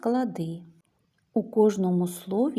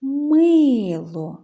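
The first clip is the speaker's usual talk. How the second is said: loud, higher call with long MY in «Мило»; 4 semitones higher, 8 dB louder than usual. Shown as a demonstration. Teacher shows children the stress, «Мило» called out. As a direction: call «Мило», stretching the stressed first syllable. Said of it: "неначе гукаємо".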